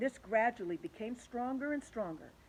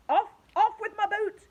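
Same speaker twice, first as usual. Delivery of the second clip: loud, high frantic yell; frantic shout; 14 semitones higher, 13 dB louder than usual. Acted. The centipede shouts at the others, loud and frantic. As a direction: yell for help fast. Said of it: "shouted the centipede".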